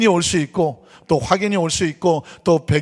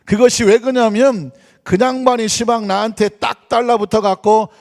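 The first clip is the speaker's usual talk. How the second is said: hammed-up Jeolla dialect reading. Shown as a demonstration. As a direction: read scripture in a broad, folksy Jeolla accent. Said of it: "먼저 전라도 사투리로 시편 이십삼 편을".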